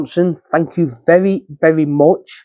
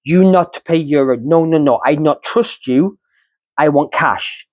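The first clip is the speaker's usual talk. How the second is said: Spanish driver refusing. Retold or imitated.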